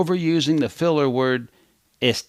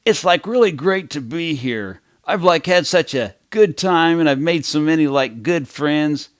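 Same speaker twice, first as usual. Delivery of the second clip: put-on teen-style guest; 4 semitones higher than usual. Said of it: "They tend to talk English the same way".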